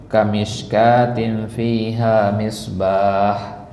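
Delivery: slow, drawn-out recited verse; Quran recitation. Shown as a demonstration. Teacher reads from surat An-Nur, slow recitation. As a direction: stretch each long vowel as in recitation.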